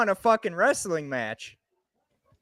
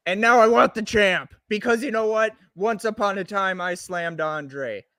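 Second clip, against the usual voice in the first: wrestling promo. Pretend. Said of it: "we're gonna do a promo, but I'm gonna do it first".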